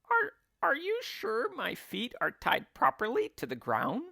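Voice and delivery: high, anxious gasping voice; a touch of breathless fear; gasped question. Acted. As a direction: stammer it out, suddenly worried. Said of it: "she gasped".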